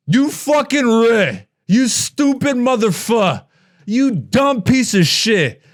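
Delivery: heated, slow insults; angry rant. Real, not acted. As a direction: tear into him with contempt. Ranting insults at commenter.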